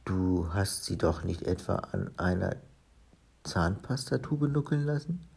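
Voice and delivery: understated shock; mildly alarmed. Acted. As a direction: ask with a touch of dawning fright. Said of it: "fragte erschrocken".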